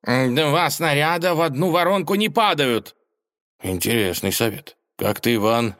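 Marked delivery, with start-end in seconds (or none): 0.0-2.9 high scholar voice, stress on не; cat gives wartime advice in a high voice; cat's advice. Acted. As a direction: lecture them confidently.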